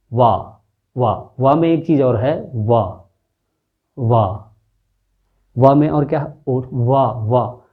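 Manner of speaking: वा said repeatedly with the lip against the teeth; touch the teeth to the lip for वा; teacher repeating वा; labiodental वा demo. Shown as a demonstration. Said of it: "थोड़ा सा दांत का भी इस्तेमाल".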